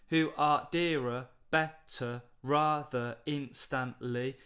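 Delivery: slow, measured reading of the verse; slow poem reading. Shown as a demonstration. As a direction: read each line slowly, counting the beat. Reads poem line slowly.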